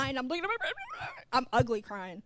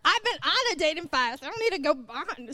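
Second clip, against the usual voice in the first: much higher, louder mock outrage; exasperated; 6 semitones higher, 4 dB louder than usual. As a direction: throw up your hands in disbelief. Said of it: "I'm like".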